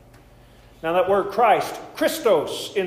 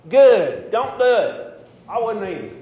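playful jab; 6 semitones higher, 8 dB louder, slower than usual. Real, not acted. Jokey Lent quip to the crowd.

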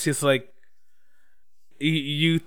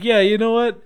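loud, high retold quote through laughter; laughing along; 8 semitones higher, 8 dB louder than usual. Imitating the hero as he joins her laughter, amused and loud. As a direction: laugh through his admission, pitched up. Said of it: "he just starts laughing too".

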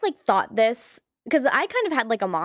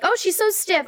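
mock shocked teen; 9 semitones higher than usual. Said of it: "they're like".

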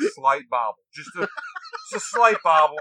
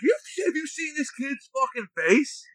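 mock officer voice; 12 semitones higher, slower than usual. Inspector mocking recruit's face.

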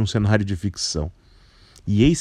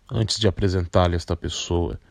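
put-on a lightly lowered, composed older man; 2 semitones lower than usual. Carpinteiro replies.

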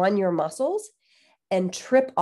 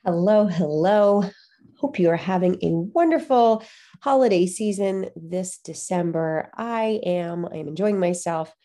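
stuffy nose from a cold; talking through a blocked nose; nasal voice. Real, not acted. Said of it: "I'm sorry if I sound really nasally".

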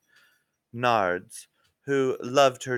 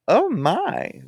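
high, louder startled oh my; shocked gasp; 10 semitones higher, 6 dB louder than usual. Acted. Wiener shocked by news.

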